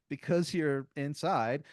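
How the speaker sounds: high, slow, drawn-out announcement; slow, lofty mystic guide voice; grand explanation. Retold or imitated. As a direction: stretch out the Imaginarium like a showman.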